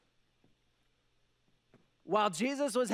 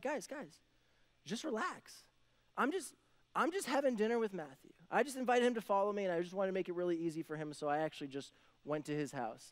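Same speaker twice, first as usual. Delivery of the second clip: soft, easygoing reassurance; calm reassurance; 4 dB quieter than usual. Acted. Jesus calming his worried followers, soft and easy. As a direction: settle the worried crowd gently.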